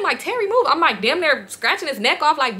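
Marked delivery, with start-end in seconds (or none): 0.2-0.7 high-pitched urgent demand, reenacted; retold urgent protest. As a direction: reenact pushing someone away, voice jumping high. Retold struggle, pushing him.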